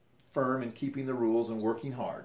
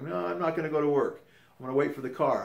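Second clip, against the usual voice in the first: higher, pushier replay of the companion's refusal; a lightly voiced stubborn companion; mock stubborn refusal; 4 semitones higher, 4 dB louder than usual. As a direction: play him digging his heels in. Retold quarrel, companion refusing work.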